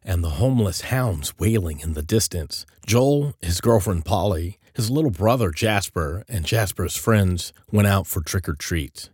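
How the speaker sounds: ordinary delivery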